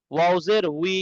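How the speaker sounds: "উই" pronounced wee, beginning with w; w-glide wi. Shown as a demonstration. Teacher repeating the rule for students, clear w at the start of "উই". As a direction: glide from rounded w to ee on "উই". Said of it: "ওয়াওজের উচ্চারণ হবে ডাব্লিউ".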